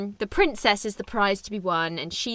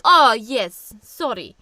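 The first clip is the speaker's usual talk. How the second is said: sheepish Ivan; 3 semitones higher, 10 dB louder, slower than usual. Retold or imitated. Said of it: "And he's like".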